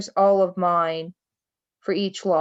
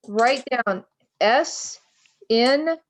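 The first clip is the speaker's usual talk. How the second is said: dictating; 2 semitones higher, much slower than usual. Shown as a demonstration. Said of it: "write this down".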